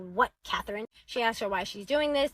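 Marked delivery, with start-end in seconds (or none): 0.0-0.9 mock irritated pickup; with attitude. Mom finally answering her daughter's calls, with attitude. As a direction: answer as if bothered by the call. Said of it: "with a whole ass attitude".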